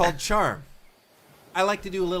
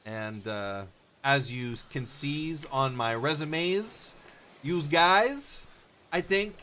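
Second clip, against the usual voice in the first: put-on comical Italian accent; slower than usual. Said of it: "start off with a comical Italian accent".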